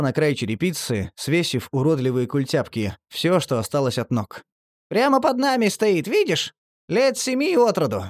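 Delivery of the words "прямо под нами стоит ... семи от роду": very high squeaky whisper-free chatter; high creaky ghoul voice. A narrator's reading. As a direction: point it out squeaking. Marley's high creature voice.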